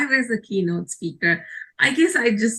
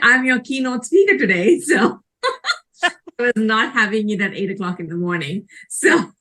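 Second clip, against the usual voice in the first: laughing while telling; 2 semitones higher than usual. Real, not acted. Laughing retelling her reply.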